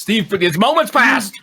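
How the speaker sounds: laughing outburst. Real, not acted. Prompting co-player laughing.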